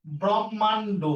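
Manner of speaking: ব্রহ্মাণ্ড broken carefully into brom-man-do; careful pronunciation. Shown as a demonstration. Teacher answering how the word is pronounced, careful syllables. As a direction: sound out ব্রহ্মাণ্ড with a closing o. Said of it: "তাহলে এটা উচ্চারণ কি হবে?".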